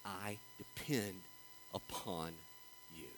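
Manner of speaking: hushed, low and very slow; quiet, halting declaration of reliance; humble dependence. Retold or imitated. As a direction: let each phrase drop softly with long pauses. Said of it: "the way that I relate to him by saying".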